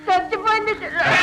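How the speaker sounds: a sob breaking into a shout; wailing the news to his little sister; sobbing cry. Acted. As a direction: cry it out through tears. Boy tells sister mother died.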